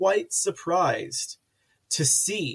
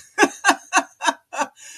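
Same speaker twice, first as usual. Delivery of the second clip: high, loud laughter; long high-pitched burst of laughs; laughing; 11 semitones higher, 5 dB louder than usual. Real, not acted. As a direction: laugh hard at a silly joke. Laughing at sausage joke.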